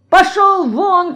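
high, slow imperious dismissal; retold shout. Федорка mimics the master throwing Павлуха out, shouting. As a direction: mimic a master ordering someone out. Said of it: "кричит".

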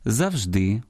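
Завжди with the stress on the final -ди; stress on last syllable. Shown as a demonstration. Radio host shows listeners the Russian-like stress, final-syllable stress on Завжди. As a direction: put the weight on the end of Завжди. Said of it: "обирають спільний з російським".

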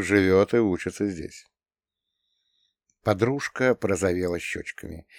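ordinary delivery

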